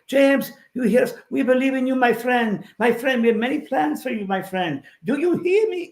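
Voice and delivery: high-pitched spirit voice with a hint of French; a high, eager French spirit telling his friend he believes in him. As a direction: speak as a kindly French spirit encouraging a friend. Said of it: "It was a Frenchman".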